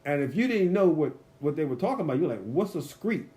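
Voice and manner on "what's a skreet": "street" echoed as "skreet"; puzzled echo. Retold or imitated. Puzzled visitor repeating the Alabama word, "street" said as "skreet". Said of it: "they couldn't say the word right".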